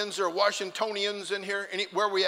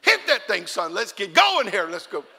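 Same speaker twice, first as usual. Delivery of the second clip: louder urging shout; urging driver; 7 dB louder than usual. Retold or imitated. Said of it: "I kept saying".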